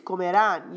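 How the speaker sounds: Comerán with the final -rán stressed; stress on the last syllable. Shown as a demonstration. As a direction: land the accent on -rán of Comerán. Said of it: "It's gotta be where that accent falls".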